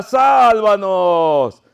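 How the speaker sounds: long, drawn-out call; cry for help. Acted. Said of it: "Y gritaba por ayuda".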